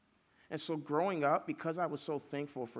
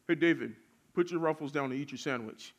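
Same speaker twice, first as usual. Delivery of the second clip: imitating a caretaker's first, restrained order; mildly firm telling-off; 4 dB louder than usual. Caretaker to three-year-old eating Ruffles, mildly firm. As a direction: tell a child what to do, only slightly firm. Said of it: "he gets a little bit more mad".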